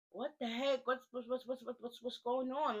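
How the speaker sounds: high, baffled stammer of what's; sputtering in disbelief at who walked in; stunned confusion. Retold or imitated. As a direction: friends gawking as new wife arrives, baffled. Friends stunned at new girl arriving.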